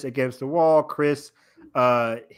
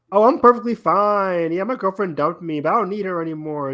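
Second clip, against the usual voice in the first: mock breezy denial; 4 semitones higher than usual. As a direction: imitate someone insisting they're over a breakup. Mimics character pretending to be fine.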